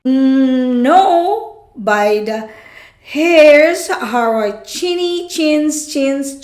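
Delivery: high-pitched, squeaky piglet answer; high treble. Acted. Frightened piglet refusing the wolf, high treble. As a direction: pipe up high in defiance. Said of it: "trebled".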